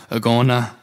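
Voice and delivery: Agona said with a playful Greek lilt, landing firmly; Greek accent inflection. Shown as a demonstration. Pastor repeats the Greek word, mock Greek accent. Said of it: "You like that little accent inflection I got?".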